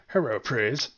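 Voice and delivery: loud triumphant cheer; shout. Real, not acted. Cheering his catchphrase.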